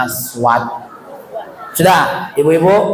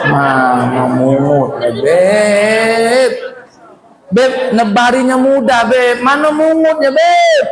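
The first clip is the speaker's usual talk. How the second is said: dismayed protest; slower than usual. Retold or imitated. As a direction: protest in rising panic to the Habib. Sinner protests he cannot gather. (protes panik yang makin tinggi)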